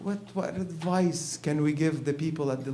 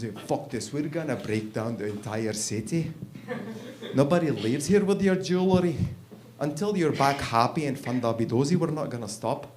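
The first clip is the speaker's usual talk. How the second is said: put-on Scottish accent. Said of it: "the Scottish agent is very upset".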